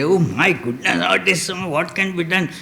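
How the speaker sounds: lightly acted exasperated complaint; a touch of put-on irritation; mock irritated. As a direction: grumble as if mildly put out, imitating someone bothered. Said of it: "Doesn't get irritated".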